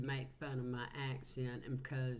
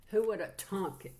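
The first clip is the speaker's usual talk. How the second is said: surprised; 5 semitones higher, 6 dB louder than usual. Real, not acted. Surprised reaction to the message.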